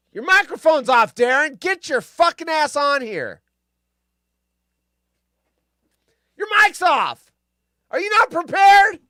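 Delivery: loud, high exasperated calling out; yelling at friend. Real, not acted. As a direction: shout across to get him on the mic. Yelling at Darren's muted mic.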